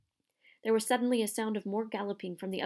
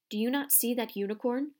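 bellowing; 3 semitones higher than usual. Acted. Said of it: "Firenze bellowed at Bane".

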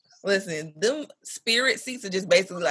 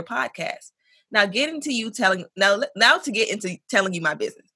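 letter reading. Acted. Reads listener email aloud.

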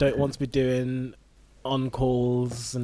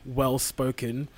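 air quotes; slower than usual. Real, not acted. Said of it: "air quotes now".

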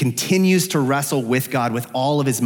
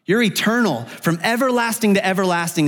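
higher-pitched, assured declaration to God; lightly acted confession of faith; statement of faith; 6 semitones higher than usual. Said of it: "read it like a statement of faith".

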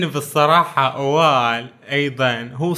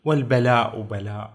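poem recitation; 2 semitones lower than usual. Retold or imitated. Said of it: "يقول".

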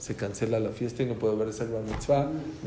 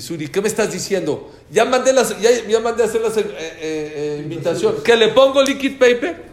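higher and louder, half-laughing in disbelief; a friend throwing up his hands, laughing at the absurdity; exasperated outburst; 7 semitones higher, 8 dB louder than usual. Retold or imitated. Friend on the phone about already printed invitations, exasperated and half-laughing.

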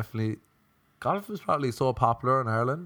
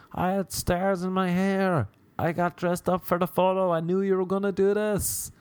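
put-on hurt girlfriend; 8 semitones higher than usual. Girlfriend voiced, upset.

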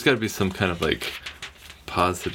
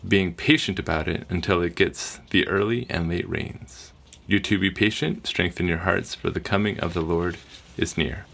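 reading voice. Acted. Official reader reads James chapter five to the group in a steady scripture-reading voice. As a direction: read it out like the appointed reader. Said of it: "Let me put my reading voice on".

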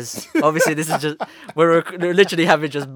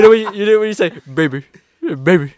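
put-on phone voice for a girl; 3 semitones higher, 7 dB louder than usual. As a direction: charm her down the phone. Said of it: "That's the voice".

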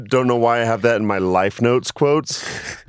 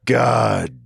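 put-on grumpy old man; much slower than usual. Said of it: "And he goes".

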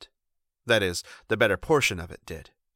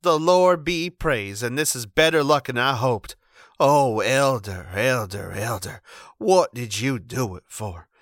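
relieved; 3 semitones higher, 5 dB louder than usual. Acted. Wife near hysterics.

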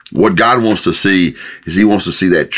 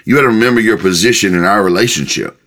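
God; 2 semitones higher, faster than usual. Acted. God reminding people of their position, mildly stern. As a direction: put them firmly in their place, briskly. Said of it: "this is God saying".

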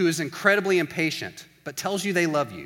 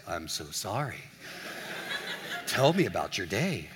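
lower register voice; 8 semitones lower, 6 dB quieter than usual. Acted. Patient friend comforting at Starbucks, lower register voice. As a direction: drop way down low, mock soothing. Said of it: "They move to the lower register voice".

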